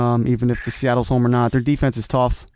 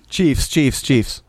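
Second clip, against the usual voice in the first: laughing; much slower than usual. Real, not acted. Laughing while answering.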